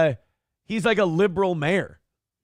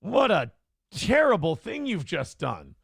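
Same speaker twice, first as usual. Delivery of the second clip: mock horror; slower than usual. Mock outrage at donor.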